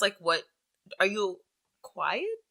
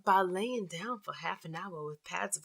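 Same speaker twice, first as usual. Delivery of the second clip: sexy voice. Pretend. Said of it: "I'll read this one in a sexy voice".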